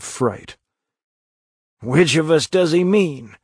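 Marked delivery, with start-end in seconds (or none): 1.8-3.4 higher, urgent, alarmed question; frightened gasp. A narrator's reading. Huckleberry asks Tom whom the howling dog means, gasping in fear. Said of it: "gasped Huckleberry".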